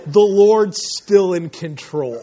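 slow, untroubled imitation of an elder; Pastor Chuck, reassuring. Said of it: "he just chuckles".

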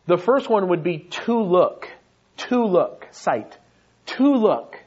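TO LOOK. stressed on TO, falling; spelled out slowly. Shown as a demonstration. Preacher unpacking a Greek word, stressing each part. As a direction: repeat "To look" with weight on To. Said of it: "break down into three English words".

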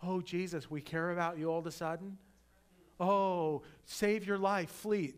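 lightly put-on alarm, rising on the warning; a hint of feigned worry; mock-concerned Pharisees. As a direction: imitate insincere well-wishers urging escape. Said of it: "isn't it interesting to you? The Pharisees are like".

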